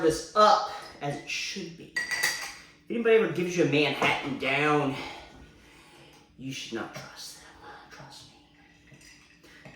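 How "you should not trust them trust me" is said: whispering. Real, not acted. Conspiratorial aside.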